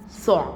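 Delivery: "ثع" as one syllable closed by ayn; tha joined to ayn. Shown as a demonstration. Teacher answers the sound question, joining th and ayn in "ثع". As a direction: run th into a vowelless ع in "ثع". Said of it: "الثاء مع العين".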